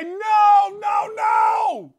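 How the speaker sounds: panicked high shout of no; desperate loud no no no. Real, not acted. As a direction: yell it as the phone goes over. Shouting as phone falls.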